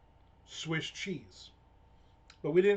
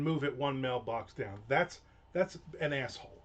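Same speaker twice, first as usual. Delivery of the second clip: mild mock rant at the neighbor; grumbling, retelling his fury; retold anger. Telling viewers what he thought of his neighbor, mildly angry. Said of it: "I'm, I'm pissed".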